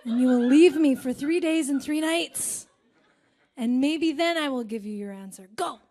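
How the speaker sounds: put-on ominous old crone giving orders. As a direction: play the demanding old crone. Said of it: "the crone's like".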